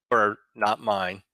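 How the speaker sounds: whispering under breath; whispered aside. Real, not acted. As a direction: whisper it to yourself. Aside while naming the file.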